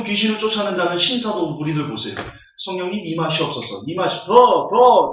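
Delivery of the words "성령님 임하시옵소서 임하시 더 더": hammed-up pleading, slowing on the last 더; mock faith healer prayer. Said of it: "제가 지금 손기철 장로 얘기하는 거예요".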